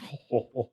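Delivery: soft imitated guffaw; imitated laughter. Hank finds the skit so funny, imitated chuckle. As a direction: mimic a tickled laugh, quietly. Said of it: "Hank is over there. He's just".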